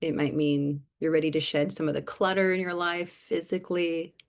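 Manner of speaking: unhurried meditation lead with lingering silences between phrases; guided meditation. Real, not acted. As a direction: gently guide listeners inward, leaving long pauses. Leads a short guided reflection.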